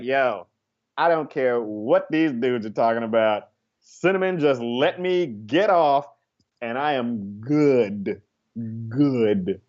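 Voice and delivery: slow, mellow mock contentment; blissed-out satisfaction. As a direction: play someone lazily, utterly satisfied. Acting out a blissed-out satisfied customer.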